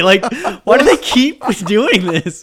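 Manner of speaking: high, loud, slow disbelief; exasperated. Real, not acted. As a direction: plead it in baffled exasperation. Exasperated at the movie.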